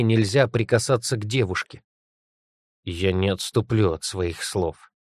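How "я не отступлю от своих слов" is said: forced out. Acted. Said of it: "вытолкнул из себя".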